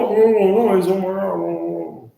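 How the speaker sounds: high, loud, squealing alarm; panicked high protest. Retold or imitated. Bystanders warning about something on an arm, high squeal. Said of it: "People were like".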